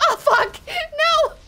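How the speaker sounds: "Oh, fuck! No!" loud and high, real shock; startled yell. Real, not acted. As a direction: yell in real alarm as the car goes over. Game mishap.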